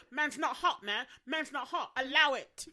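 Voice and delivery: playful London street voice; London road-man. Retold or imitated. Friend quotes London slang while laughing. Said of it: "British people that are like".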